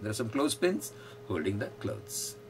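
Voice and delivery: very slow, every word spaced out; slow model sentence. Shown as a demonstration. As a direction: dictate it slowly for the class. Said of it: "model sentence".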